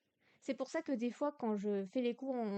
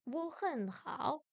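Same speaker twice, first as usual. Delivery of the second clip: slow tones; 3 semitones higher, much slower than usual. Shown as a demonstration. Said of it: "C'est, c'est extrêmement bas".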